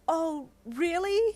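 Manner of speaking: a thrilled, drawn-out "oh, really?"; delighted cry. Acted. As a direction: let the disbelief turn to joy. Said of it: "he cried with delight".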